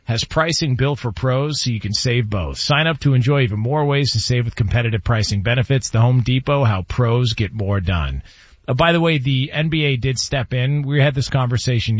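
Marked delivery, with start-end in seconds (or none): 0.0-8.2 polished sponsor read. Acted. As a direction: sell it like a radio spot. Host reads sponsor ad.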